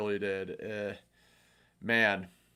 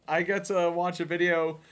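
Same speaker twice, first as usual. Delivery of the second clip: excited; 6 semitones higher than usual. Retold or imitated. Retold eager reaction to video.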